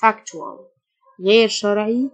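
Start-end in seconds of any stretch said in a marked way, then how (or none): 0.1-0.6 factual said FAK-chual; teacher shows factual with the ch sound; tu as ch demo. Shown as a demonstration. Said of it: "التيو تنطق التش".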